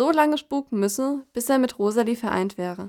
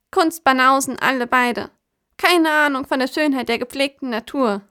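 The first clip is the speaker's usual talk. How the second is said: schläfrig gemurmelt; 3 semitones higher than usual. Acted. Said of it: "murmelte sie schläfrig".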